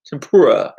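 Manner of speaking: "Tempura" said firmly as tem-POO-ruh; settled pronunciation. Shown as a demonstration. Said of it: "I think, right?".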